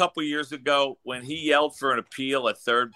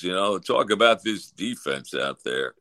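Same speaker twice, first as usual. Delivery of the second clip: Larry Andersen monotone; 10 semitones lower than usual. Retold or imitated. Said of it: "the monotone is perfect".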